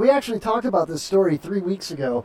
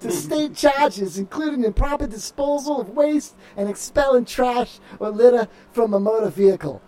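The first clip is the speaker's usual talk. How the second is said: slow put-on Massachusetts news read; Massachusetts accent. Host reading the Gloucester Times report, Massachusetts accent. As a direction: drag out the Massachusetts vowels. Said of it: "read it like you're from Massachusetts".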